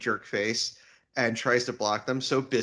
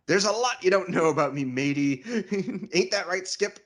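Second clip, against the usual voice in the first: otter voice; 5 semitones higher, faster than usual. Retold or imitated. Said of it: "an otter impression".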